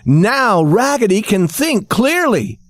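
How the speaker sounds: slow high chorus of dolls. Acted. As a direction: cheer it slowly as toys. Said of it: "shouted all the dolls".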